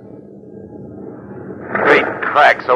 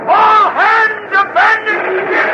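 full-voiced shout of an order; shouting abandon ship; 6 dB louder, slower than usual. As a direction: bellow it across the deck. Ship breaking up, captain orders.

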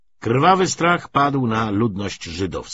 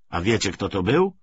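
ordinary delivery, nothing marked

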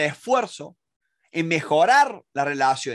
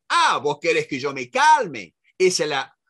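defensive mock retort; 3 dB louder than usual. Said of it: "es como que alguien te está juzgando".

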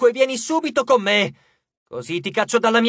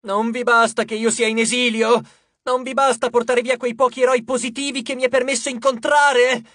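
high, loud, indignant rant at the heavens; shouted tirade; 6 semitones higher, 5 dB louder than usual. A narrator's reading. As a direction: rail at the gods, building to a demand. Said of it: "gridò la ragazza al cielo". (invettiva gridata)

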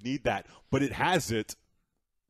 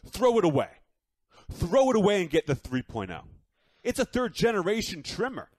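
emphatic ad push; 4 semitones higher, 3 dB louder than usual. Acted. Hyped ad push.

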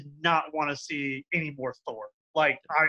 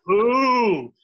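outraged; 5 semitones higher, 5 dB louder than usual. Real, not acted. Outraged rant about Thor.

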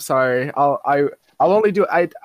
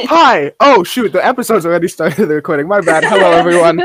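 loud greeting; 7 dB louder than usual. Acted. Late host bursting into recording.

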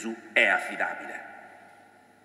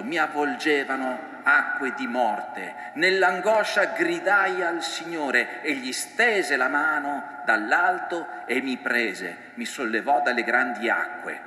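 slow, measured reading of a prayer; psalm recitation; 2 semitones higher, slower than usual. Acted. Preacher quoting the psalm Peter prayed, slow and solemn.

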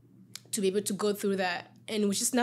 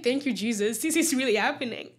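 excited mock scream, higher but held back; retold screaming; 3 semitones higher, 4 dB louder than usual. Thanking Jesus alone in the car, mildly retold scream. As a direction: relive the joy without fully screaming. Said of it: "I was screaming".

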